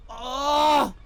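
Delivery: long groan of effort; strained groan. Real, not acted. Streamer trying to get down from pose, strained groan. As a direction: groan as you struggle down.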